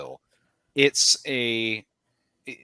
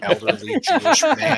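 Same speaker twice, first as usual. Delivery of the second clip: put-on crusty elderly New York Jewish man; old New York grumble; New York accent; 8 dB louder than usual. Shown as a demonstration.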